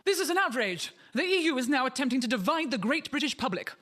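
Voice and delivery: high mock outrage; indignant campaigner. Comedian voicing Brexit campaigner, mock outraged. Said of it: "told The Independent".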